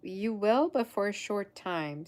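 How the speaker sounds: emphatic put-on southern answer; southern accent. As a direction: stretch it out with a southern twang. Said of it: "keep my southern accent".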